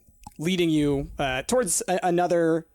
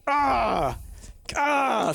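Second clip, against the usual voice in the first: confused stammer; 2 semitones higher, slower than usual. Retold or imitated. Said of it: "both she's confused and fighting against it".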